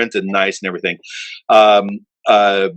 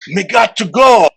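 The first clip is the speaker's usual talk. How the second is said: higher, slow drowsy mumble; half-awake Lloyd answering Roland, higher and slow; sleepy Lloyd; 10 semitones higher, 4 dB louder, slower than usual. Retold or imitated. Drag it out half asleep. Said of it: "he's like".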